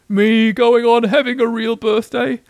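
high, slow, drawn-out question; incredulous. A narrator's reading. Eeyore doubts it is his birthday.

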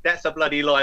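lightly voiced film-star impression; a hint of the actor's delivery; Michael Caine. Shown as a demonstration. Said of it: "like Michael Caine".

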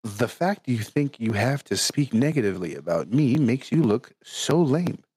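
hushed nature documentary narrator reading. Retold or imitated. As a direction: read it like a calm documentary narrator. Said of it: "I'm gonna use my narrator voice for this".

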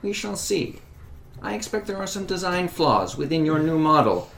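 defiant retort. Acted.

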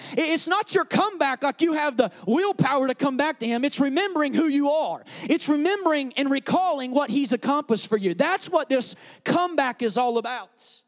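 loud, emphatic sermon delivery; full-force preaching. Acted. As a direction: drive the point home to the congregation.

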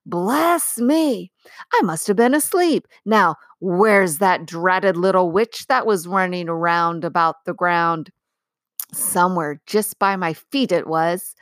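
a sleepy giant grumbling awake; waking giant. Acted. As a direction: giant blinking awake, puzzled and cross.

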